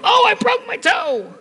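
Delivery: very high, drawn-out mock wail; mock yell. Wife or daughters stubbing a toe, in a mock yell. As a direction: imitate a dramatic yell over a stubbed toe. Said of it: "they'll immediately yell".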